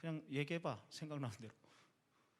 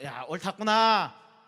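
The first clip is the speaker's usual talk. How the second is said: slow, louder approving exclamation; pleased Jesus; 6 dB louder, much slower than usual. Retold or imitated. Jesus approving the answer, slow and pleased. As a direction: draw out the praise with delight. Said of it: "예수님이 이러셨을 텐데".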